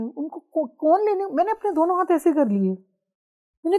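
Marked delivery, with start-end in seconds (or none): 0.0-1.3 crying as the question breaks off; choking up. Retold or imitated. Telling friends how she cried asking where her guru went. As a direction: voice catches on a sob, high and strained.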